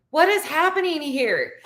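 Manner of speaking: high-pitched retold disbelief; bewildered amazement. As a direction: act out being thoroughly baffled.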